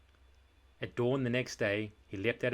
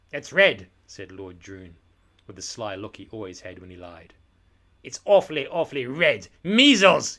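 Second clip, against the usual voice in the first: loud, building to a triumphant yell; shouted accusation; 12 dB louder than usual. Acted. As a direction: bellow measles at the boy. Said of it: "he shouted".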